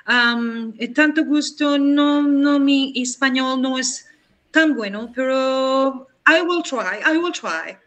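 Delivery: slow, high American tourist Spanish; hammed-up American accent mixing English in; gringo American accent. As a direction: play an English speaker struggling with Spanish. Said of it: "yo puedo entrar mañana y decir".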